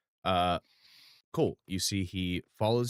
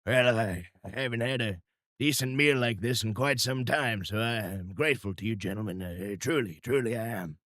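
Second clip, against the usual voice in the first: frontier trapper voice. Acted. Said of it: "coonskin hat looks up and goes".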